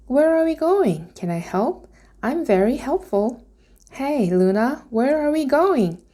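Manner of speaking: high, eager pestering; eager dragon. A narrator's reading. Dragon pesters Luna eagerly, high and bright. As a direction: bounce along asking questions. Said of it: "Firion pestering".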